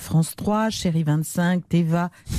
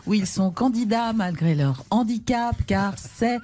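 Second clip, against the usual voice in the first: talk-show host's lifted, emphatic presenting voice; Evelyne Thomas; 2 semitones higher than usual. Acted. Host introduces two brave presidential candidates, mock-solemn TV presenter voice. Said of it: "toujours présentée par Evelyne Thomas".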